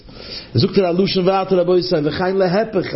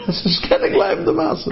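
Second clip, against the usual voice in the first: a high, slow put-on voice for the caller; high slow phone voice; 12 semitones higher, slower than usual. The caller's reply on the phone, high and slow. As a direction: stretch it out high like the man on the line.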